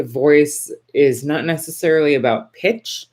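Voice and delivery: lilting highs, rising on "pitch"; upward swing. Real, not acted. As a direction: let the phrase swing up and finish high on "pitch". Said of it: "just like that last sentence I said".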